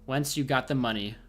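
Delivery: steady storybook reading voice; story narration. A narrator's reading. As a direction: read the tale aloud to the viewers. Streamer reads fairy tale aloud.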